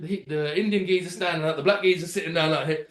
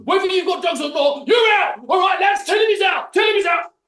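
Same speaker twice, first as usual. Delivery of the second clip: high, loud shouted orders; mock shouting security boss; 10 semitones higher, 6 dB louder than usual. Security boss ordering his lads to throw him out, loud mock yell. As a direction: bark the verdict at the lads. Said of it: "He's like".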